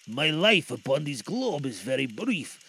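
lightly voiced solemn spirit; low, grave and otherworldly; ghost voice. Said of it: "replied the ghost".

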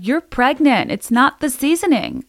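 high, loud mock shout at the host; imagined listeners shouting. Listeners yelling at the clueless host, mock shouting. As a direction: shout it like an exasperated listener at the radio. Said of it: "were any of you shouting at me".

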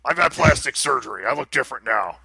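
a hint of mock celebrity introduction; Steve Ritchie. Jokingly poses as Steve Ritchie.

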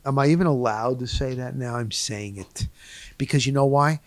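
ordinary delivery

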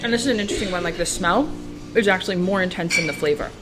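talking with a mouthful; words round a bite of cheese; mouth full. Real, not acted. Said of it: "I'm totally talking with my mouth full".

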